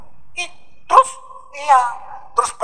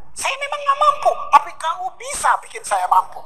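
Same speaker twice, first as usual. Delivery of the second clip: pleading prayer; 9 semitones higher than usual. Pretend.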